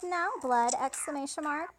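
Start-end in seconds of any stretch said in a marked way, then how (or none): 0.0-0.7 imitating an excited fan; excited exclaim. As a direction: call his name out eagerly. Elliot exclaims, narrated exclamation mark.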